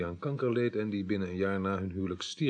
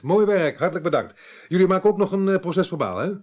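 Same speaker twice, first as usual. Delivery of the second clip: delighted; 9 semitones higher, 5 dB louder than usual. Acted. Pleased phone thanks.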